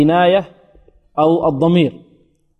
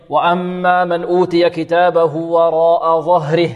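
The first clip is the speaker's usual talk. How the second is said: measured, slightly slow tajweed chant; Quran recitation; slower than usual. Shown as a demonstration. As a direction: recite the verse with drawn-out vowels. Reciting the verse as example. (تلاوة مرتلة)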